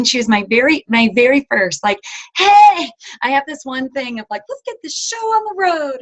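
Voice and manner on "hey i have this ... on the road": high, excited mock voice; playing her eager younger self; eager recruit. Retelling her eager early self.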